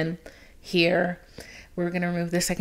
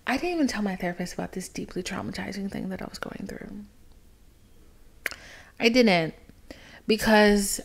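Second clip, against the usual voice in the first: confessional whisper. Real, not acted. Confessing to podcast listeners she hid it from her therapist, whispered. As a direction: whisper it like a secret.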